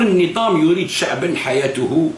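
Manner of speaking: slow, measured recital of a quoted article; reading his article aloud. Retold or imitated. Vlogger reading the leader's own article back to him, slow recital. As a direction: read the quote deliberately, word by word. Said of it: "تقول".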